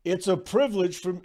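first try at a Bill Walton voice; Bill Walton impression. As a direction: start a light Walton voice. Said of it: "my Bill Walton impersonation".

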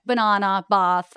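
"banana" and "bath" with a broad "ah"; Australian long A. Shown as a demonstration. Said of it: "certain words with A's in them".

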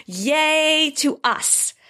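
little cheer. Real, not acted. Celebrating the award nomination.

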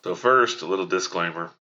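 talking with new braces, marbles in mouth. Real, not acted. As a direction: speak around fresh braces like marbles in mouth. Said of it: "I got marbles in my mouth".

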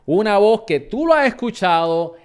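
guest introduction. Acted. Host presenting the Tele once voice to listeners, announcer build-up. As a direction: present the guest like a big reveal.

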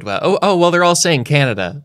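imitating an excited Canadian bird researcher; Canadian researcher imitation. Researcher explaining birds say Canada, mock Canadian accent. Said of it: "that Canadian bird researcher said".

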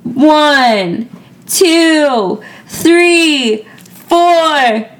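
called-out count, each number drawn out and falling; drinking countdown. Real, not acted. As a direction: count them off like a party chant.

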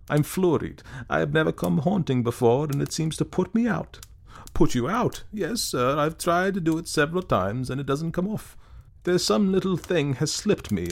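put-on a weak, silly young man, apologetic and lost; timid young ghost.

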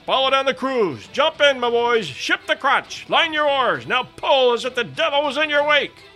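high, loud, urgent commands; successive shouted orders. A narrator's reading. Officer sending men into the boats, shouted orders. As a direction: drive the crew on with bellowed orders. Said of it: "were the successive orders".

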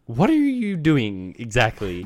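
slow, drawn-out puzzled question; mild slow supervisor query. Retold or imitated. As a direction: ask it slowly, half-bewildered. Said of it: "Did he say it like that?".

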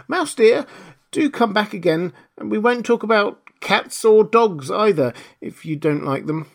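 high, pleading Alice voice; coaxing call. A narrator's reading. Alice calls the mouse back, gently coaxing. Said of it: "she called softly after it".

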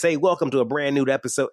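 a mild mock radio-host voice; broadcaster voice. Imitating a stiff broadcaster voice he once had, mildly. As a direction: lightly imitate a cheesy TV host's welcome. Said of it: "talking like this".

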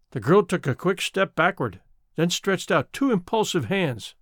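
ordinary delivery, nothing marked

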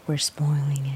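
low smug declaration; contentious. Acted. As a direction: say it like a challenge. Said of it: "You sound so contentious saying that".

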